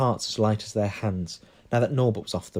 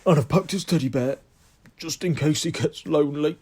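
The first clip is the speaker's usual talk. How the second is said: higher, tearful Hagrid voice; Hagrid's different voice; 6 semitones higher, 4 dB louder than usual. A narrator's reading. Hagrid to Harry about Norbert's teddy, higher and tender. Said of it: "a very different voice".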